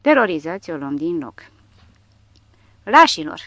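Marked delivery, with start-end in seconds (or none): 2.8-3.4 loud, higher cry of contempt; shouted accusation. A narrator's reading. Dying lieutenant to the fleeing tank crew, shouting. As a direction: hurl the insult after them. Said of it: "ne strigă un locotenent infanterist înainte de a muri".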